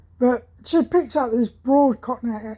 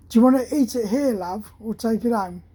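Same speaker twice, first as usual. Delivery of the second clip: put-on Cockney accent. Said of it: "with a broad Cockney accent".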